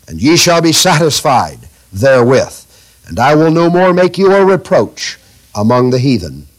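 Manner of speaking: scripture reading. Acted. Reads God's promise aloud.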